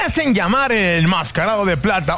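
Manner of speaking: hyped host intro. Real, not acted. Host introduces guest on radio.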